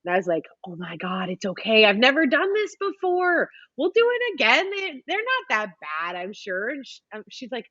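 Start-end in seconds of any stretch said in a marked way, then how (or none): 0.6-6.7 retold frantic reassurance, pitch leaping up mid-way; alarmed reassurance. Reassuring her crying sister on phone.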